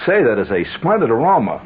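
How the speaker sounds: lightly voiced polished commercial line; the real ad wording, a hint of announcer polish; stiff ad-speak. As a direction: read it like a mild Madison Avenue actor. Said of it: "What he really said is".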